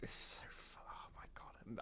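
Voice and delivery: breathless whisper through laughter; laughing too hard to get words out; wheezing, whispered, near tears of laughter. Real, not acted. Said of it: "I've got tears in my eyes".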